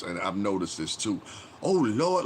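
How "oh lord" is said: high, loud exaggerated wail; mocking podcaster impression. Mocking podcasters who talk this way, exaggerated high wail. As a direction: wail it like an over-dramatic podcaster. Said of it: "you start talking like this".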